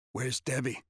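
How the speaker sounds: hoarse, scratchy half-whisper. Acted. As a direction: rasp it out, barely audible. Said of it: "His voice was all scratchy, barely above a whisper".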